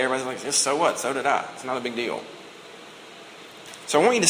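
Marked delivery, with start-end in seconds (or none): 0.4-2.2 soft, dismissive shrug; so-what mumbled brush-off; unimpressed. Acted. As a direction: play it down, trailing quieter.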